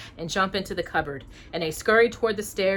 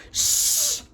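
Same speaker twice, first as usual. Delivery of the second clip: a quick hissed shush; fairy hushing the others to listen; sharp shush. Acted. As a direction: hush everyone at once.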